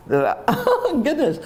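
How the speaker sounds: high, choked laugh through tears; overcome. Real, not acted. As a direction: catch yourself welling up mid-sentence.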